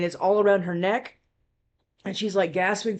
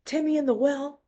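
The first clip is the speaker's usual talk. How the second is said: Lassie reference; 7 semitones higher than usual. Retold or imitated. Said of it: "trying to tell me somebody was in trouble".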